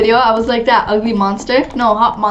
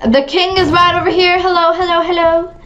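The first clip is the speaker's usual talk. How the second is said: lightly voiced king, pitched up; a hint of a royal herald; playful king; 5 semitones higher than usual. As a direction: announce the king's arrival in a raised sing-out. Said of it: "walk of, uh, the king".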